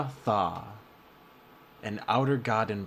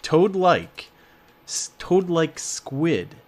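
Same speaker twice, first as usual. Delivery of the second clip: toad-like said high, loud and slow; stress on toad-like; 6 semitones higher, 7 dB louder, slower than usual. Shown as a demonstration. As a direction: lean hard on toad-like. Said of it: "stressing the word again".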